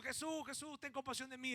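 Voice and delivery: light imitation of a beggar's cry; retold cry. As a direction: call out from the roadside. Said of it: "alguien está gritando".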